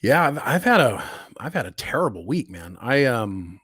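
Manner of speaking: hoarse voice from a cold; rough, hoarse voice while still sick. Real, not acted. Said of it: "You can hear it in my voice right now".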